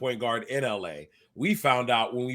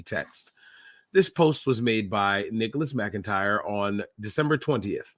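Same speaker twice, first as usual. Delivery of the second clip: reporter voice. Acted. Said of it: "please put on your reporter voice".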